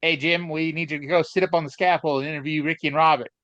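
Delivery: put-on lightly done, brisk Australian accent; half-hearted Australian that drifts toward Tennessee; attempted Australian accent. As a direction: hurry through a bad Australian accent. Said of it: "your attempt at an Australian accent".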